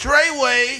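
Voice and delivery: high, loud yelled line. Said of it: "always yells".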